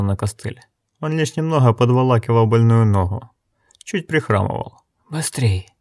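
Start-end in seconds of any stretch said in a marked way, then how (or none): 5.1-5.7 unvoiced, lifeless whisper. A narrator's reading. Necromancer urging the others on, in a whisper. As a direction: breathe the word with no life.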